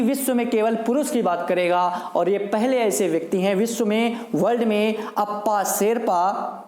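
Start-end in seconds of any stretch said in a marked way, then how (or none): 5.2-6.6 drawn out slowly, each word spaced; slow name. Shown as a demonstration. Teacher makes students memorise the name, slow. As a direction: spell the name out slowly for the class. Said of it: "क्या नाम है इनका?".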